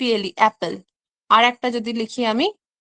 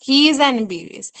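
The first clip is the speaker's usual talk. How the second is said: he is an এমবিবিএস read out slowly; an stressed before এমবিবিএস; slow model sentence. Shown as a demonstration. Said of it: "তার মানে এখানে an এমবিবিএস".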